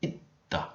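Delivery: said as itta, no S sound; itta, the S dropped. Shown as a demonstration. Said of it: "it becomes a".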